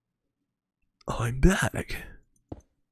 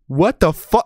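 surprised; 7 semitones higher, 6 dB louder, slower than usual. Real, not acted. Sudden shock in game.

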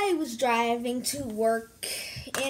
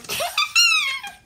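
high, loud cackle; high-pitched burst of laughter; 6 dB louder than usual. Pretend. Opening a story time, high loud cackle.

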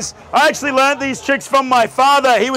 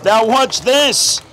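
theatrical magician; much slower than usual. Acted. Magician's showman cue.

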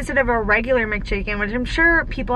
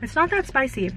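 chewing between words; talking mid-bite; mouth full of chicken. Real, not acted. Seen 1: Both are eating; unclear which woman speaks; mouths look full.

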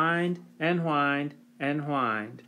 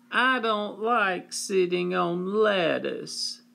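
high, slow whine; whining child; 5 semitones higher, slower than usual.

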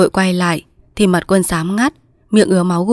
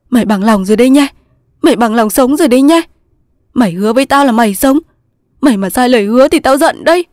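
raised, loud eager insistence; flustered; 6 semitones higher, 5 dB louder, faster than usual. A narrator's reading. Thành makes his weak friend promise to live, flustered. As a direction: press for a promise, all in a fluster. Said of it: "Thành cuống quýt".

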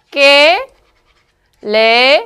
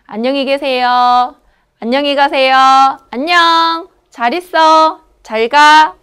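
chirpy run of friendly goodbyes; casual greetings; 3 semitones higher, 4 dB louder than usual. Shown as a demonstration. Teacher modelling casual Korean farewells, lively. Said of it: "Así podemos hablar".

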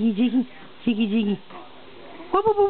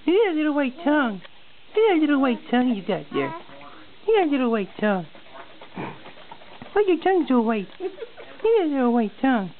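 high-pitched cooing, lilting; 5 semitones higher than usual. Real, not acted. Talking to the baby.

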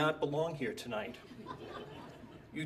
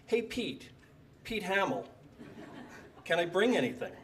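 eager laughing ask; 4 semitones higher than usual. Retold or imitated. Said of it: "And I ask him".

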